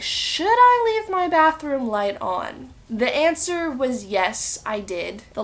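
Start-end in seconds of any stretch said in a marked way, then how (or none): 0.0-2.7 mock scared thought. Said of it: "I read it at night and I was like".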